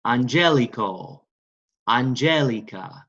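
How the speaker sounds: "angelico", "Angelica" slowly, stressed on GEL; third-to-last stress. Shown as a demonstration. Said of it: "Remember, third to last".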